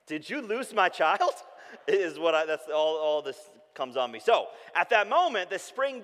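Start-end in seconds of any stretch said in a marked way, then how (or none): 0.1-1.3 slow, higher, louder accusing question; wife accusing him, drawn out; mock accusing wife. Mother accusing husband of losing child, slow.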